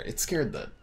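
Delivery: whispered aside, breathy and hushed. Real, not acted. Telling viewers how the deer spooked him, whispered. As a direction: breathe it out, no voice at all.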